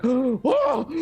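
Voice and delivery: high, loud whoa; amazed gasp. Acted. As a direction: gasp it out in awe.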